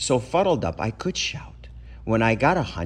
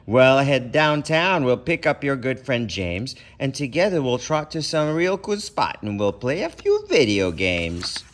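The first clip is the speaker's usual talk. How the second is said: louder, lightly voiced eager pal; better hunch; 4 semitones higher, 4 dB louder than usual. Better hunch tempts the boy to go play games. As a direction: coax him out to have fun. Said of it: "The better hunch said".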